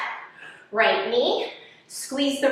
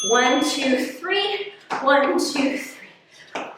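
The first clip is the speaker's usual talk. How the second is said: aerobics instructor; much slower than usual. Real, not acted. Calling counts during runs in place.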